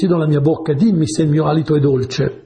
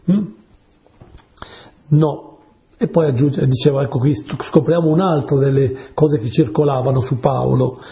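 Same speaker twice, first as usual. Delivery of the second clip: ordinary talk, nothing marked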